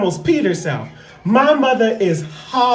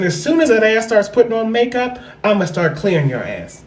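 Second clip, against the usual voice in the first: mock threatening aunt. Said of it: "I said".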